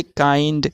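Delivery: काइंड said with an ai glide; pronunciation example. Shown as a demonstration. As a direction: model काइंड slowly. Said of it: "तो फिर काइंड बन गया".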